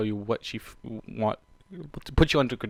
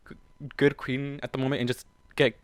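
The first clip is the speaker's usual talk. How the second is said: plain reading voice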